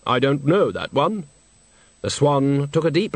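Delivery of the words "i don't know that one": Death's voice. Acted. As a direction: speak as grave, patient Death. Death speaks.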